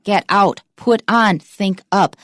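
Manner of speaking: "out", "on", "up" stressed along with their verbs; both words stressed. Shown as a demonstration. Teacher listing phrasal verbs, both words stressed, ending on "out", "on", "up". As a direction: drill each pair with weight on verb and "out", "on", "up". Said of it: "两个都有重音".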